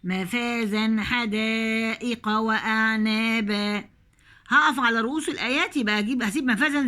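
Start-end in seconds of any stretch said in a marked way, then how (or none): 0.0-3.8 slow measured tajweed chant; slow Quranic recitation. Shown as a demonstration. Recites verse.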